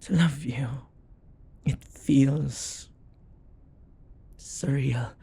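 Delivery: hushed wondering whisper; awed whisper. Acted. Demon confessing love to his summoner, awed whisper. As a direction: whisper it in disbelief.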